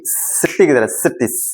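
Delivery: सीटी with a long hissing "sss" at the start; hissed S. Shown as a demonstration. Teacher likens X to a cooker whistle, hissing the स in सीटी. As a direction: stretch the स of सीटी like escaping steam. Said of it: "मैं कर रहा हूँ ना, same ऐसे ही".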